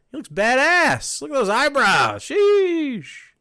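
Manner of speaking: loud, swooping admiration; big impressed exclamation; impressed hype. Real, not acted. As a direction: hype it up, stretching the last word. Hyping up a fan's drawing.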